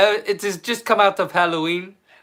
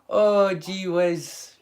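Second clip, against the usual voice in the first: slow flustered sigh; 3 semitones higher, much slower than usual. Real, not acted. Flustered, put on the spot.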